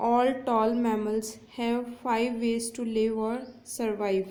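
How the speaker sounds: very slow, leaning on the word endings; slow example read. Shown as a demonstration. Teacher reading a consonance example to students, very slow. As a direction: draw out the "l" and "v" endings. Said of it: "तो देखिए".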